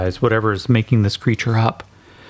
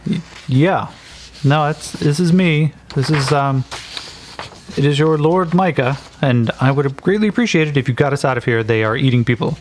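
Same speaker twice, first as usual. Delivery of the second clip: stammer, then press for rescue; Micah urgent; 3 semitones higher than usual. Acted. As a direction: Micah begging the guard to get them out. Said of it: "He goes".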